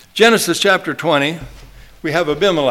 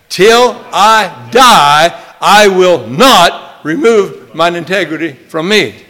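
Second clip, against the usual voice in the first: till I die stretched long and loud; slow emphatic mantra; 5 dB louder, slower than usual. Shown as a demonstration. Preacher urging the church to say it again, loud and slow. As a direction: pound out the vow. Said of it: "Say it again".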